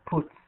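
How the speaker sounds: "Boots." closed on a voiceless s; teacher models "Boots." ending in s, not z; final S sound. Shown as a demonstration. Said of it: "pronounce it as S".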